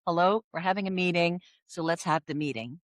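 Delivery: understated European practicality; down to earth. Acted. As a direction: get straight to business, no fuss. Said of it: "we tend to be more down to earth".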